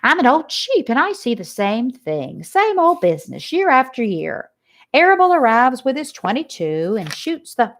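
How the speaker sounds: lightly voiced old sheep, gossiping; a hint of an old sheep telling grim news. Old sheep warns Wilbur of the farmer's plot, lightly voiced.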